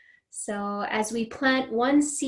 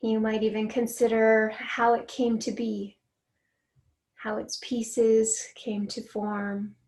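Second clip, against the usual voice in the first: guided meditation. Real, not acted. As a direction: lead a mindful noticing exercise, unhurried and steady. Leads a grounding exercise.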